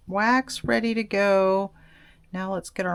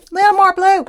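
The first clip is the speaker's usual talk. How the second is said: high sing-song; 11 semitones higher, 10 dB louder, faster than usual. Pretend. Repeating request, pitch rising.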